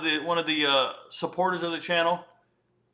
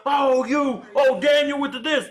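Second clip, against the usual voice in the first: high loud shrieking yell; mock screaming streamer; 9 semitones higher, 5 dB louder, slower than usual. Mocking TikTok kids screaming thanks, high and loud. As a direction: shriek the thanks like a hyped kid. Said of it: "they start screaming, yelling".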